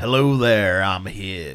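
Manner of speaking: very low, deep Southern drawl. Discussing an actor's roles, doing Higgs's weird southern drawl. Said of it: "He has this weird southern drawl to his voice".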